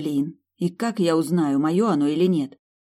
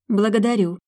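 purring; 5 semitones higher, 5 dB louder than usual. A narrator's reading. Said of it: "мурлыкнула в ответ".

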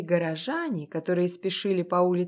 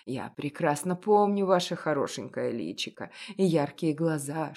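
put-on an elderly shopkeeper, knowing and gentle; a hint of a kindly old baker; old confectioner; 5 semitones lower than usual. Old confectioner speaks to Masha.

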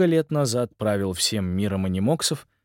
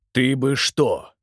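low growl; 2 semitones higher, slower than usual. Acted. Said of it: "низко прорычал кто-то рядом".

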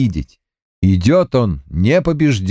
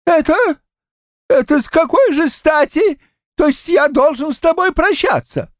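put-on high, quavering old man's voice, much higher; trembling old man. A narrator's reading. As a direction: ask it as a scared old grandad with a wobbling voice. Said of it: "спросил дрогнувшим голосом".

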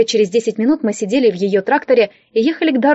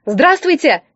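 higher, raised hello to the crowd; loud greeting; 5 semitones higher, slower than usual. Acted. Liza greets the noisy crowd, loud and high. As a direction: call out to be heard over the crowd. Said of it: "громко поздоровалась я".

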